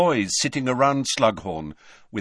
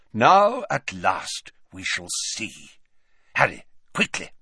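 put-on old wizard voice; 3 semitones higher than usual. Dumbledore voiced in story.

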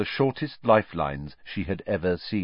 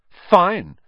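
loud, high, huffy one-word retort; haughty; 11 semitones higher, 9 dB louder than usual. A narrator's reading. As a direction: cut them off haughtily. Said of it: "said Hermione haughtily".

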